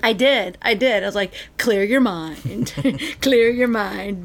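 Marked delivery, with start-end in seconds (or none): 1.6-4.2 slow, soothing mock meditation guide; drawn out like a playful guru; mock mindfulness coaching; mock guru calm. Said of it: "You taught him a magic technique too".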